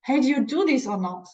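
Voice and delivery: fast, impatient push for an answer; pushy demand. Acted. Teacher acting a pushy asker, impatient and fast. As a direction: press them to answer now. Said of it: "a little bit pushing people to".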